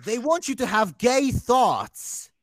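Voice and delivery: slow, deliberate warning; slow, hammed-up doomsayer; mock conspiracy voice. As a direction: spell it out like a paranoid preacher.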